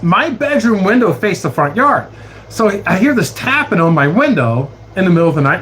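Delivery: normal talking voice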